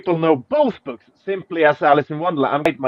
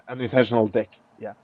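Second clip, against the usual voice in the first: softer, quick, through a laugh; 5 semitones lower, 7 dB quieter, faster than usual. Real, not acted. Rereading the stranger's typo to viewers, laughing. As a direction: chuckle it out at the typo.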